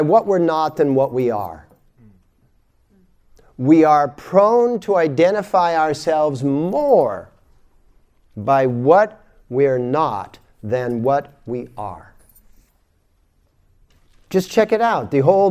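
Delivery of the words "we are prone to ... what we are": slow and emphatic; slow, deliberate. Shown as a demonstration. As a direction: spell it out slowly, word by word. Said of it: "repeated slower".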